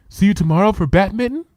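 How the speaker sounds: gentle Fluttershy. Acted. Fluttershy says goodbye.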